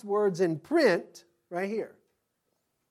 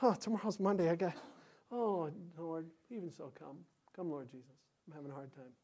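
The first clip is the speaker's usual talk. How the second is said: weary sigh; 2 semitones lower, 9 dB quieter than usual. Pretend. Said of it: "we adults".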